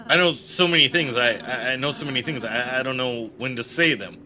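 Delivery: lightly voiced flustered apology; Ralsei flustered. Ralsei apologizes to an angry Susie, flustered and trailing down. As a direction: stammer it out, fading after the first try.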